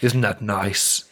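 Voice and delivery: slow crooning soul singer; slow seductive croon, imitating; deep sexy voice. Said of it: "deep, sexy voice".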